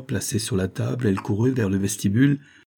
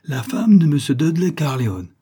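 high, loud indignant insistence; rising outrage, louder each word; 7 semitones higher, 6 dB louder than usual. Acted. Wife insisting on her rights, loudly indignant.

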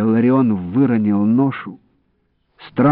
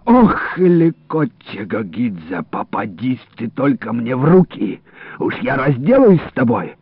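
pained threat; 3 semitones higher than usual. Acted. Wounded man cursing his attacker.

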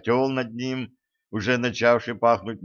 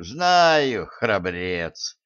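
disdainful; much slower than usual. Acted. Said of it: "брезгливо поморщился".

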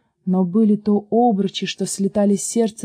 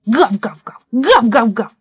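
rapid barks in two bursts; short, punchy woofs; dog barking; 2 semitones higher, 5 dB louder than usual. A narrator's reading. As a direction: answer like an insistent dog. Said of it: "собака все ему в ответ".

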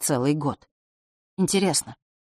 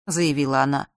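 usual speaking voice

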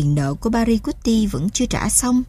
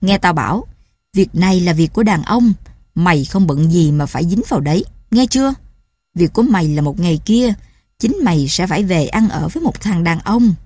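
louder, hard fatherly scolding; stern warning; 3 dB louder than usual. Acted. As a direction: lay down the law to the daughter. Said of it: "một lời răn nghiêm nghị". (răn đe nghiêm khắc, giọng cha to và gắt)

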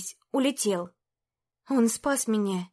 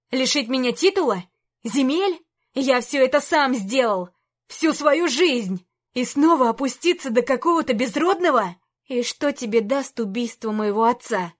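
angry rant; 4 dB louder than usual. Acted. Antey rants at princess.

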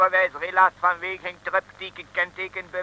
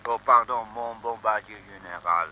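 meek apology; 10 semitones lower, 9 dB quieter than usual. Acted. Gendarme suddenly humble before "general.

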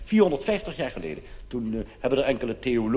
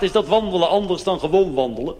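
higher and louder with a laugh in it; amused faux-innocent query, pitched up; mock-naive question; 6 semitones higher, 5 dB louder than usual. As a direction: ask it with a laugh, playing innocent. Comedian quotes own naive question.

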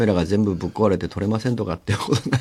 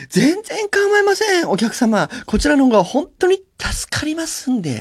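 very high, sugary service voice; overly polite server. Retold or imitated. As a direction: gush apologies like a too-sweet waitress. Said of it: "って言ったのね". (声を裏返した過剰に丁寧な店員)

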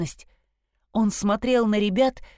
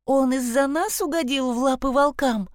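put-on alarmed girl voice; 6 semitones higher than usual. Chloe alarmed by the news.

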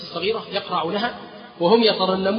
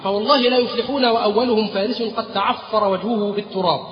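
battle cry. Acted. Khalid calls his horsemen to charge, mild rallying shout. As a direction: urge the riders forward. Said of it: "فصاح خالد".

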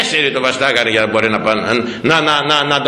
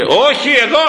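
cling on, refusing to budge; insistent high cry; 10 semitones higher than usual. Retold or imitated. Boy insisting on staying.

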